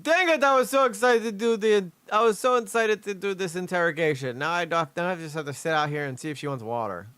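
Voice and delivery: mock a sulking detective; disappointed. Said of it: "That guy was like".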